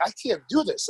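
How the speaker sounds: a touch of teary despair; near tears. Retold or imitated. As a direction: retell a kid close to crying, lightly. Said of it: "I'm almost, like, cry".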